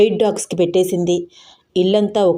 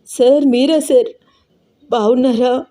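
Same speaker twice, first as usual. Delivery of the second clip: choked up; 5 semitones higher than usual. Acted. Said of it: "తన గొంతు పూడుకుపోతుంటే చాలా కష్టపడి అంది".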